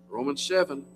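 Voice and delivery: ordinary delivery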